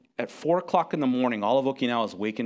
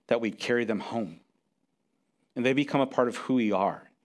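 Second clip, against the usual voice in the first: closing prayer; 2 semitones lower than usual. Acted.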